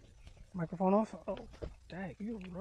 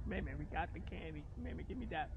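hushed; 6 semitones lower, 10 dB quieter than usual. Real, not acted. Whispering to sister about candy.

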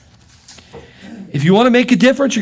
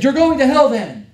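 lightly imitated Australian accent, pitched up; mock Australian accent; 4 semitones higher, 3 dB louder than usual. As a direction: retell it with a hint of Australian, lifted in pitch. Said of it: "Australian accent".

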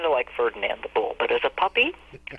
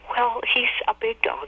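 coy friend; 10 semitones higher than usual. Retold or imitated. Friend evasive about the dog.

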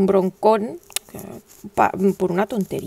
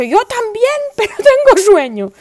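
high, louder laughing answer; laughing reply; 10 semitones higher, 7 dB louder than usual. Retold or imitated. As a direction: laugh it off but say you're sleepy. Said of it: "mother answering son".

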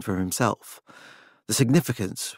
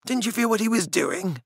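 higher, pointed question; incredulous Francis; 10 semitones higher, 3 dB quieter than usual. A narrator's reading. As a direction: press her, disbelieving. Francis rebukes Claudia.

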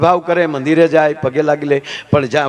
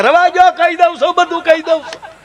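much higher, pleading squeal; panicked confession; 12 semitones higher than usual. Retold or imitated. A thief with his soles beaten, shrilling out a confession. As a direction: beg them to stop, high and frantic. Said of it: "તારે કે".

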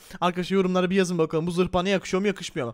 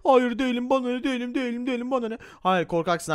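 higher, whiny denial; sulky kid insisting; pitched-up petulant no; childish protest; 4 semitones higher than usual. Acted. Friend denies being coward.

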